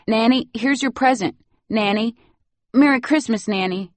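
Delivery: put-on high, eager little-boy voice; excited child. Little boy giving nanny her present, excited. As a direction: hand over the gift bursting with joy.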